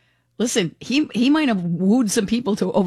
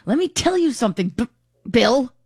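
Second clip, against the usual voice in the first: mock tough-guy scolding the moderator; Peter Alviti impression; 4 semitones higher than usual. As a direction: play the brash Peter Alviti, jabbing. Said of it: "he was Peter Alviti".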